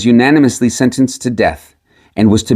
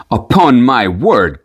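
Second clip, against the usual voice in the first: slow surprised cry; slower than usual. Acted. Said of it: "cried the miller".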